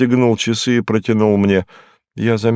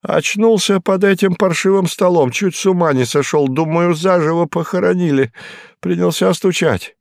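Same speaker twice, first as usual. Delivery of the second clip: higher, rattled voice of a frightened man; shaken Hinkus; 8 semitones higher than usual. Acted. Hinkus telling the detective he woke under a table, rattled and higher. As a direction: blurt it out like someone still in shock. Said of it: "narrator voices Hinkus' frightened account".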